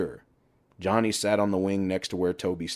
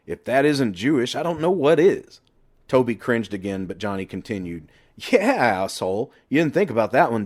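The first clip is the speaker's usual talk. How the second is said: a hint of a scolding buddy, higher and pushier; lecturing friend; 3 semitones higher, 4 dB louder than usual. Johnny scolds Toby about his family, pushy and raised. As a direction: hammer the point home to your friend.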